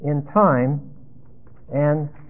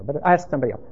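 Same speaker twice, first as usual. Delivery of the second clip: softer, lower, muttered disbelief; doubtful news photographer; 6 semitones lower, 9 dB quieter, faster than usual. Acted. Photographer doubting a passerby's answer, softer and lower. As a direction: brush him off and move on. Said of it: "the news photographer goes".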